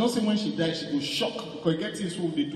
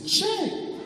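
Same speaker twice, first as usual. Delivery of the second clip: mock shocked sympathizer; 2 semitones higher, much slower than usual. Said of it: "The two of them go say".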